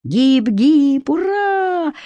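put-on high cheering boy; ringing boy's voice. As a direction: shout it like an eager schoolboy. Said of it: "звонкий мальчишеский голос".

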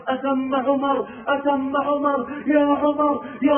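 high, loud calling out; urgent shouting of a name. Retold or imitated. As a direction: call out Omar's name across the night. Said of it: "ويصيح".

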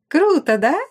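high, loud thrilled brag; chirpy pride in her trick; excited boast. Acted. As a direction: brag with delight.

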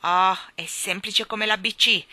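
grand, self-assured pronouncement; a hint of royal majesty; majestic. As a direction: speak like a proud king. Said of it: "disse maestosamente".

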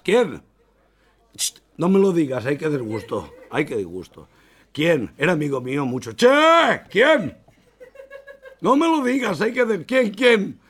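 high, loud, desperate who; frantic asking. Acted. Customer begging the barber to name the dead, high and loud. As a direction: keep begging to be told.

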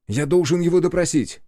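insistent protest. A narrator's reading. Lestrade protesting to inspector.

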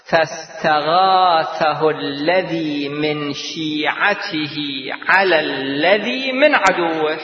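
slow chanted verse, drawn out; Quranic recitation. Acted. Preacher recites the verse to his audience, slow chant. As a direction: chant each word of the verse, stretched long.

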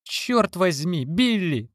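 high pleading scream at her son; mother screaming. A narrator's reading. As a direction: cry out to stop the fight. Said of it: "кричала она".

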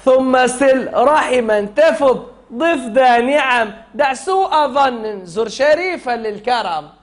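chanted teaching recital of a poem line; measured chant for a class to echo; verse recitation. Shown as a demonstration. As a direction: recite it as a model for pupils.

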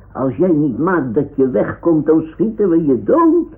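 loud, high shouted threat; shouting threat. Pretend. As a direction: yell it to scare the thieves off. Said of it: "dan schreeuwen we". (dreigend schreeuwen)

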